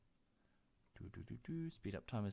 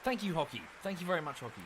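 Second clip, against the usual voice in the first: higher, sing-song thanks to a pet; 6 semitones higher, faster than usual. Real, not acted. Streamer thanks his dog in a high, doting voice. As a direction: coo your thanks like to a puppy.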